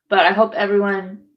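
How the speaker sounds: hoarse, cracking start of the wish. Real, not acted. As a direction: voice gives out on hope everyone. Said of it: "I can't even talk".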